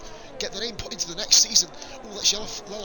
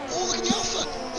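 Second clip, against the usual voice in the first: excited; 9 semitones higher, 4 dB quieter than usual. Real, not acted. Excited commentary on a battle.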